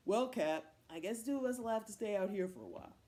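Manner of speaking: loud, lightly voiced man figure; resigned man. Man shut out with Cat, loud and resigned. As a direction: own up to it, loudly.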